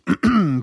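quick throat clear. Real, not acted. Clears throat mid-question.

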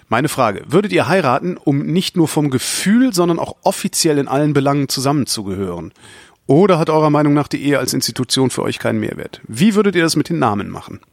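lively, projected read-out voice; reading listener mail aloud. Acted. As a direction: present the listener's question to the audience. Reads out listener question.

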